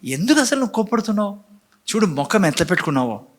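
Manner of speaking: gentle God's rebuke. Retold or imitated. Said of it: "దేవుడు కయీనుతో మాట్లాడతాడు".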